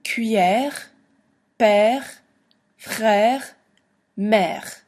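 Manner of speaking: Cuillère père frère mère read with the grave è and a throaty R; teacher models French words; French pronunciation. Shown as a demonstration. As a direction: model each French word for the class. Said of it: "let's read the words down here".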